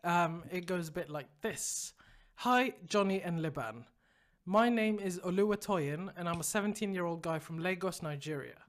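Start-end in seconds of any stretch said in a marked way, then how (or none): 2.3-8.6 measured letter-reading voice; listener's letter, read plainly; reading email aloud. A narrator's reading. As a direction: read it out evenly, falling away at the end.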